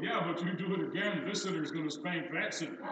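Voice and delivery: half-joking stern grandfather; mock scolding. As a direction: hurry out a playful threat to the grandson. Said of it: "all I could manage to come up with".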